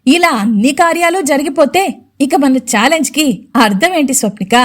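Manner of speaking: lightly sneering mother-in-law; sarcastic. Acted. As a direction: needle her with sarcasm. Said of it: "అని వెటకారంగా అంది రవళి".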